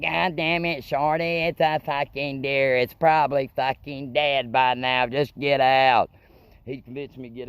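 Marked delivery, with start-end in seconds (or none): 0.0-6.1 Wesley yelling. Retold or imitated. Driver yelling at his scared friend to get out, building. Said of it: "Wesley's like".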